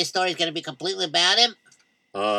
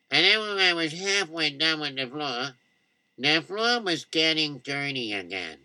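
timid customer; 3 semitones lower, 4 dB quieter than usual. Acted. Timid customer explains his mop.

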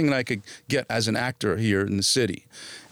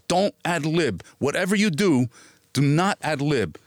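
retold warning, higher pitched, each word weighted; emphatic warning; 4 semitones higher than usual. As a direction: warn firmly, as if quoting a friend. Retells friend's stern warning before audition.

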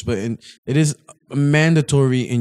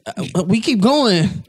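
bad Brooklyn accent; 3 semitones higher than usual. Quoting a rapper in a weak Brooklyn accent. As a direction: try a Brooklyn accent and miss. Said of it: "a good Brooklyn accent".

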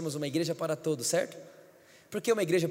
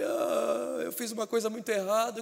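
whimpered mock-tearful confession; drawn-out mock sob, then a whine; imitated crying; 3 semitones higher than usual. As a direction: imitate someone sobbing out guilt. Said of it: "Ele começou a chorar e falou".

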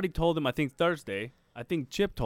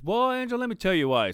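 imitating his way of talking; 7 semitones higher, 3 dB louder than usual. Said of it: "and this is how he talks".

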